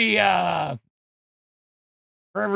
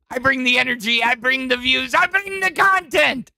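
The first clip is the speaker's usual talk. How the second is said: higher, ranting attempt at a Welsh accent; 7 semitones higher than usual. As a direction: build a boastful Welsh-accented rant, peaking on content. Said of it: "trying to do the voice of Nightmare".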